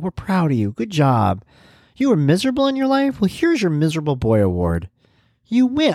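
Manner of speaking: sarcastic people praising someone for being miserable; mock praise. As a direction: hand out a fake award with a sneer.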